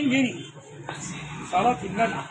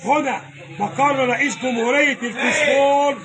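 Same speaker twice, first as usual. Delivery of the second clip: hawker's call; slower than usual. Real, not acted. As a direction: cry out the prices like a street seller. Butcher hawking meat to passersby.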